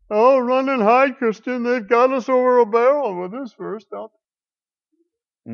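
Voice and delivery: high, loud feigned alarm; mock panic. Preacher mimicking Christians cornered by heretics, mock panic. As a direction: cry out in hammed-up dismay.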